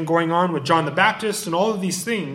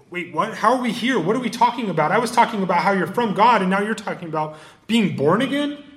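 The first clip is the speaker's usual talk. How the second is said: mock confusion; 3 semitones higher than usual. Nicodemus voiced, confused.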